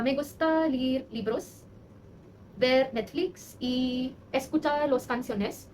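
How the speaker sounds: slow, deliberate beginner Spanish with pauses; careful learner Spanish. Shown as a demonstration. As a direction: speak Spanish slowly, word by word, like a learner. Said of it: "अपना Spanish का ना ऐसे बोलने की कोशिश करूँगी". (धीमी, सोच-सोचकर बोली गई स्पेनिश)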